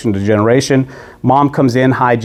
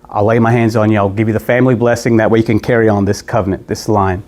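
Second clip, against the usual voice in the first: lightly voiced frail old father, lower; a hint of a tired old man near the end; 3 semitones lower than usual. Aging father asks for blessing meal.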